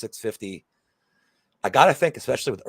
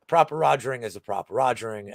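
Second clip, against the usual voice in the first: mock British. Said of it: "the British accent".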